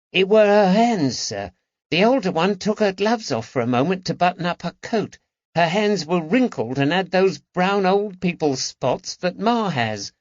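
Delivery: put-on high London boy's voice; the lad proudly reporting clues; eager boy. A narrator's reading.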